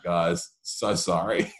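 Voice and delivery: slow, laughing through a sheepish apology; sheepish kid laughing while apologising. Retold or imitated. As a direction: giggle out a slow sorry. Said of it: "And I'm like".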